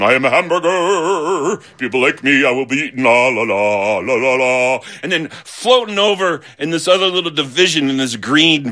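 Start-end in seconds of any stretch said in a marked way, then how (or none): 0.0-4.8 a hamburger singing its own praises; a lightly voiced, smug hamburger. Hamburger on the plate bragging, lightly sing-song. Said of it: "sitting on the plate going".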